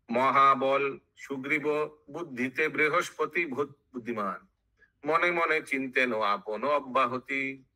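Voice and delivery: measured chanted verse with drawn-out line endings; sing-song Bengali verse recital; verse recitation. Acted. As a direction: intone it like epic scripture.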